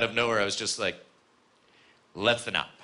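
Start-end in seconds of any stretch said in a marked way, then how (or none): 2.1-2.7 low, tough-guy movie line delivery; action hero. Retold or imitated. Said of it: "this is a great action hero movie line".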